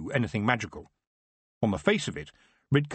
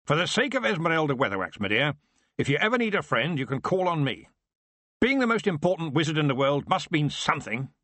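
wizard's big voice; 6 semitones higher than usual. Acted. Wizard speaks to Tiffany.

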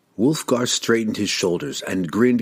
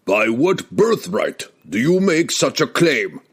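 slow, raised, scornful demand; scornful king; 4 semitones higher than usual. Acted. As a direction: demand it with contempt. King challenges the youth.

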